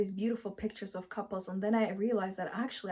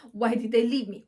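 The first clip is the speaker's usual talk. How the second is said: mock angry; 7 dB louder than usual. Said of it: "You're angry with them".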